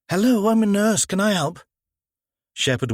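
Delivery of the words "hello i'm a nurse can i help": high, louder helpful woman's voice; nurse offering help. Acted. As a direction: step in brightly to offer aid. Nurse steps in from crowd.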